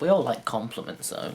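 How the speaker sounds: ordinary talk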